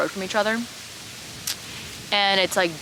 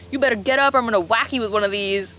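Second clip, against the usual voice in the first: quick, higher mock threat; joking threat; 4 semitones higher, 4 dB louder, faster than usual. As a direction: imitate a boss threatening in jest. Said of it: "he's, like, joking".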